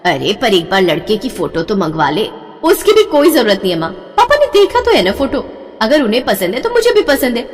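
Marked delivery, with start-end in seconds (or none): 2.6-7.4 eager dismissal. Acted. Daughter brushing off photo.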